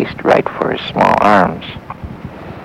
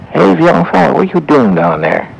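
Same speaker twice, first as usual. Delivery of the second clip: calling down; 7 semitones higher, 4 dB louder than usual. A narrator's reading. Old man calls down to boy.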